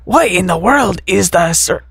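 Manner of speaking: slow, lightly faked Mexican accent with a laugh; a hint of Mexican, laughing at the end.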